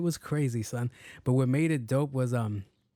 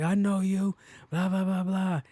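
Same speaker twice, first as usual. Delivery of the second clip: put-on drunk guy; 6 semitones higher than usual. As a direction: mimic the drunk's slurred babble, pitched up. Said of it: "he goes like".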